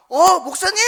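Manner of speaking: loud, high, delighted hello; recovered old man brightly calling out to his pastor; happy greeting. Retold or imitated. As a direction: greet the pastor like a surprise guest.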